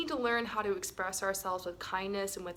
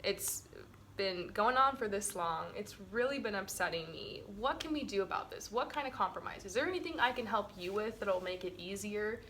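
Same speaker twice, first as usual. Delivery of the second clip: calm confrontation demo; 4 dB quieter than usual. Shown as a demonstration. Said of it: "and then I'll be like".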